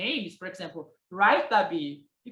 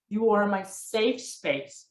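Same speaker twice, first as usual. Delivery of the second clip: flirty gaze; 3 semitones lower than usual. Retold or imitated. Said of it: "you're flirting".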